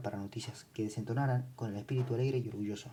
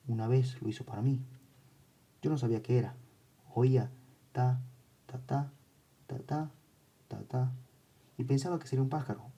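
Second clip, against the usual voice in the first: put-on a child's voice, louder and eerie; child under hypnosis; 3 dB louder than usual. Hypnotised girl tells the doctor about Brian, a child's voice. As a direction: speak as a hypnotised little girl.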